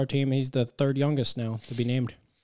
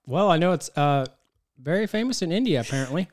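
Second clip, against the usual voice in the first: talking while chewing gummy bears; words round a mouthful of candy; mouth full; 4 semitones higher than usual. Real, not acted. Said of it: "You need to stop chewing them gummy bears".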